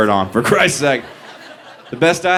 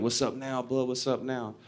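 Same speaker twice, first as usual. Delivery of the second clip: much softer gunman's taunt; menacing taunt; 13 dB quieter than usual. Retold or imitated. Gunman taunting with gun to head.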